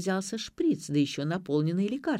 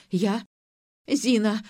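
louder, rising moan on Зина!; 3 semitones higher, 4 dB louder, slower than usual. A narrator's reading. Mother-in-law confessing to Ira, moaning Зина! louder. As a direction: cry out Зина! with the moan growing. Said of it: "стонала дама".

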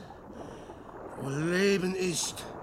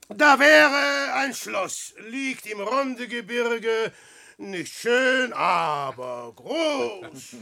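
grandiose mock auction; 2 semitones higher, 5 dB louder than usual. Peer versteigert großspurig.

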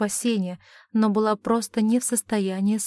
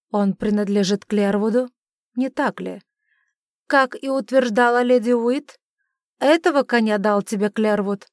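accusing father; 5 dB louder than usual. A narrator's reading.

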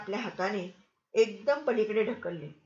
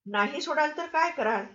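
sharp challenge; 5 semitones higher than usual. Acted. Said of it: "तीव्र दृष्टीने बघत प्रश्न केला".

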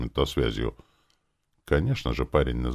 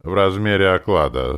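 raised, genial assurance; amiable, louder offer; good-natured; 4 semitones higher, 6 dB louder than usual. A narrator's reading. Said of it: "сказал я добродушно".

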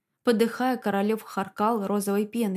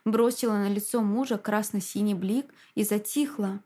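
ordinary delivery

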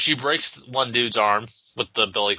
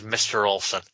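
breathy voice; 3 semitones lower than usual. Acted. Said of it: "the breathy way she says".

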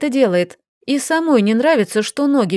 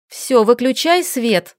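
командный тон; 2 semitones higher, slower than usual. Acted. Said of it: "скомандовала она".

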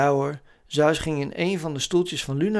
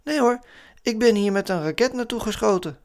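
hoog autostemmetje; Lunar; 8 semitones higher than usual. A narrator's reading. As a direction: ontken opgewekt met hoge stem. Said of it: "zei Lunar". (hoge personagestem)

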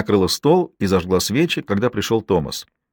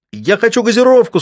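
put-on much higher, louder childish howl; wailing yell; 13 semitones higher, 6 dB louder than usual. A narrator's reading. Boy howls at his mother for soda. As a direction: scream it like a boy in full tantrum. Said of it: "снова завопил Калли".

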